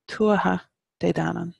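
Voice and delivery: "Tuatha", a short break, then "de danann" run together; stress on TUATHA. Shown as a demonstration. Teacher modelling the phrase for learners, stress on "Tuatha". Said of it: "put your emphasis on tuatha".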